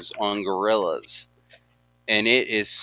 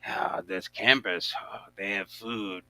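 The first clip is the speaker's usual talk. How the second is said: put-on Jamaican accent; 5 semitones higher than usual. Retelling the gorilla raiding campers, hammy Jamaican accent. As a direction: imitate a Jamaican stoner, trailing down. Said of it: "with the Jamaican accent".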